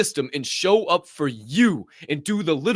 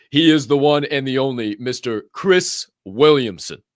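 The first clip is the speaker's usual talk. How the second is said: announcer intro; 6 dB louder than usual. Acted. Hype host introduces guest.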